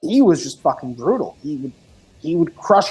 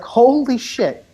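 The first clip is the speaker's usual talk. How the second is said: drawn-out, slightly higher reaction; slow, mildly awestruck exclamation; retold amazement; 4 semitones higher, slower than usual. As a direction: stretch it out as a stunned retold reaction. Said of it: "I was like".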